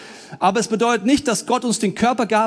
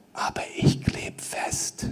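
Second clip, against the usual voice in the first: whisper; 9 dB quieter, slower than usual. Pretend. Whispered punchline.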